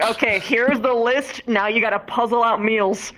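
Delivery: bossy list reading. Retold or imitated. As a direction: rattle off the rules. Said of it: "It's like".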